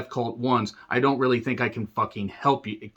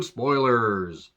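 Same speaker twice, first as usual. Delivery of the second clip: tag. Pretend. Announces spoiler section after countdown.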